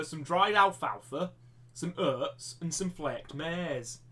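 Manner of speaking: lightly put-on northern English voice, drawn out at the end; northern English accent. Teacher listing giraffe feed, northern English accent. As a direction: slip into northern English vowels. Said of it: "a northern voice".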